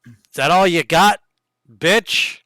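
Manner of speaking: taunt. Acted. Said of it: "and you go".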